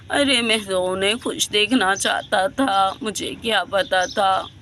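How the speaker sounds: put-on an old man, exhausted and lamenting; tired old man. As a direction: sigh it out like a worn-out grandfather.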